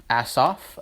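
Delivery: "Asaph" as ASS-off, rising like a question; unsure pronunciation. Shown as a demonstration. Teacher unsure of a Bible name, questioning "Asaph" as ASS-off. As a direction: try "Asaph" with an open "off" ending, questioning. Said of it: "I'm probably saying it wrong".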